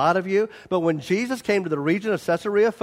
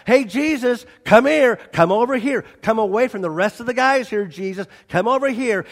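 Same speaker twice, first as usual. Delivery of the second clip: urgent Peter; 4 semitones higher, 3 dB louder than usual. Acted. Peter pulling Jesus aside.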